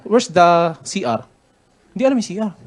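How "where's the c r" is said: asking slowly, word by word; slow, deliberate English question; slow careful question. Retold or imitated. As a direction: spell it out slowly for a foreigner. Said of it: "foreigner tinanong ko".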